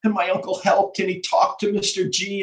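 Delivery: ordinary talk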